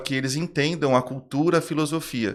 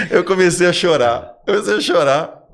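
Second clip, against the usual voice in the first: emotional retelling; 5 semitones higher, 6 dB louder than usual. Real, not acted. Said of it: "chorar assim, mas chorar".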